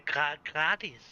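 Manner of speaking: gratis with a flattened "gra"; halting foreign take on gratis; imitated mispronunciation. Mimicking English movies saying a Danish word, imitated mispronunciation. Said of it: "But they are saying".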